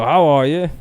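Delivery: light mock Aussie questioning lilt; sing-songy Australian greeting; Australian accent. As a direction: imitate an Australian with rising intonation. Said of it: "sound like they're asking a question when I go".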